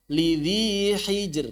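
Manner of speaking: slow "Lidhi hijr" ending on a light r; thin r. Shown as a demonstration. Teacher recites ra after two stops, thin r. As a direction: stretch "Lidhi", then keep the r of "hijr" thin.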